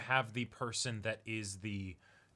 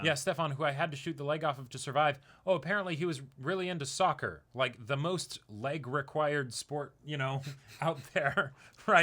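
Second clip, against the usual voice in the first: laughing mock Chris; 4 semitones higher, 6 dB louder than usual. Voicing Chris, laughing at end.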